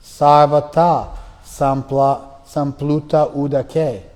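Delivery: slow, deliberate recitation; recited verse. Acted. Teacher reciting Sanskrit verse, slow and deliberate. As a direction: give each syllable weight.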